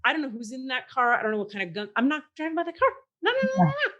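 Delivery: thoughts spiral into a high frantic no; panicking at the idea of driving past; inner panic. Retold or imitated. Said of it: "I'm thinking".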